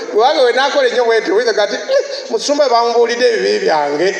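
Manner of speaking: high loud gossiping churchgoer; gossiping congregant. Acted. Pastor acts a member complaining he was exposed, loud and high.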